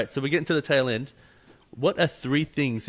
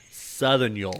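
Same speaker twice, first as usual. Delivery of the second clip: slow, drawn-out Southern "y'all"; slower than usual. Shown as a demonstration. Man showing how Southern people say it, drawled Southern "y'all". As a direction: stretch "y'all" out with a Southern accent. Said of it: "when Southern people say it".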